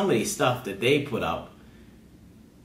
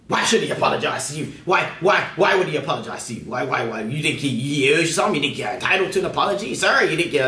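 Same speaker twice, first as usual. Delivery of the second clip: higher, rapid-fire acted outrage; hammed-up indignant scolding, pitched up; mock indignation; 4 semitones higher than usual. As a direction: fire off incredulous questions in mock offense. Mock outraged reply to ivory tower.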